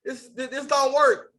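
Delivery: high, whiny mock-sobbing complaint; mock crying whine. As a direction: pretend to whimper like a hurt waiter. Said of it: "they don't start crying like".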